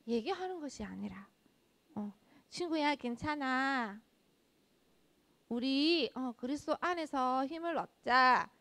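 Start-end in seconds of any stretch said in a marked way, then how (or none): 2.5-8.5 gentle reassurance. Retold or imitated. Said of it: "이렇게 얘기를 하는 거예요".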